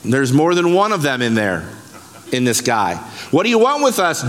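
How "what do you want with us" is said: mild mock cry, pitched higher; retold demon outcry. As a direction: lightly act out a demon's challenge. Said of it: "screamed in the loudest voice possible".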